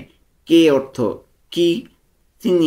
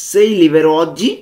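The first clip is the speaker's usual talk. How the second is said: Sei libero oggi stretched out slowly, louder; slow pronunciation model; 4 semitones higher, 6 dB louder, much slower than usual. Shown as a demonstration. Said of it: "উচ্চারণগুলো ভালো মতো খেয়াল করব". (ধীরে ধীরে স্পষ্ট উচ্চারণ)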